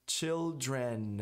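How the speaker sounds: put-on "Children" drawn out to a full N; clear final N. Shown as a demonstration. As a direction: land firmly on the N of "Children". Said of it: "Nota que eu falei o N".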